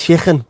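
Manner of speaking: "chicken" with a throaty Scouse k; "chicken" hissed like a coffee machine; exaggerated Scouse pronunciation. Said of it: "sounds like a Starbucks coffee machine".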